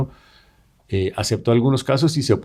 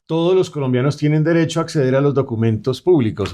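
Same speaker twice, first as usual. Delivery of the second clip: higher-pitched reading of a legal article; reading aloud; 4 semitones higher than usual. Acted. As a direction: proclaim it like a written article. Reads out an adapted article.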